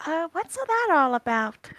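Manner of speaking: a hushed, curious aside to a companion; discreet aside. Acted. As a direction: lean in and ask it softly. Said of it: "lean down to Torin and ask".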